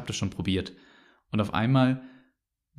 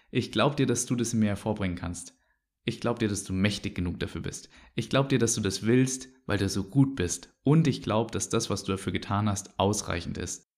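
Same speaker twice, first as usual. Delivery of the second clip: quiet prayer. Pretend. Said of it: "ich sag eigentlich zu Jesus".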